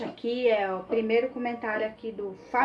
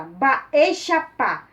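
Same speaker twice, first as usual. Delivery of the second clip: louder and firm, a mock stern tone; a bit fierce; 3 semitones higher, 6 dB louder, much slower than usual. Shown as a demonstration. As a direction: say Baexapá with a bold, stern punch. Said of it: "você fala com um tom bem mais bravo".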